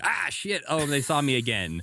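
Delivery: high-pitched mock dismay; flustered ghost impression. Host voices ghost who forgot to be invisible, mock dismay. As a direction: play a ghost caught visible, voice jumping up. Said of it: "She's like".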